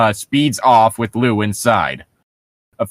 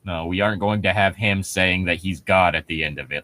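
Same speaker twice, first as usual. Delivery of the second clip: much lower and softer, dismissive; 7 semitones lower, 7 dB quieter than usual. Real, not acted. Mocking the creepypasta to a friend, low dismissive. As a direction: mutter it off flatly.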